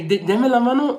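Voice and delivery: high coaxing call to the dog; dog command. Retold or imitated. Owner repeats the paw command, coaxing. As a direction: ask for the paw brightly.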